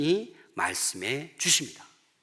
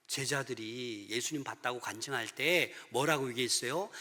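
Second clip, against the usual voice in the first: usual speaking voice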